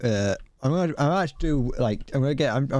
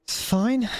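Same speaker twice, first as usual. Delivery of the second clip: higher, rising mock-cheerful it's fine; sung-up reassurance to himself; sing-song it's fine; 10 semitones higher than usual. Real, not acted. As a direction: brush it off in a lilting tune. Shrugging off a failed mission.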